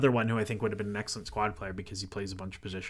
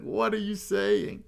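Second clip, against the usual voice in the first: put-on higher, slow, appalled old-lady voice; shocked old lady; 10 semitones higher, slower than usual. Old lady hurrying grandchildren past the swearer, high shocked scold. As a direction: play an old Italian nonna aghast at the curse. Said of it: "ushering her grandchildren past me".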